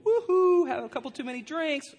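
playful high-pitched ribbing; teasing whoop. Acted. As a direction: tease someone who sounds like a drunk. Mocking reply to heaven claim.

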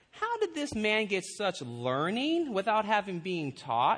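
slow, pondering learned elder; lightly mock a puzzled scholar, drawn out; musing slowly, a hint of pomposity; whisker-twirling elders. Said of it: "twirl on their whiskers a little bit".

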